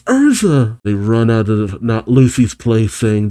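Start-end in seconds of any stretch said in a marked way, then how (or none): 0.0-0.8 high-pitched mock shout; imitated high cry of alarm; Happy shouting. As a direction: yelp the name in panic, pitched way up. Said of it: "as Happy shouts".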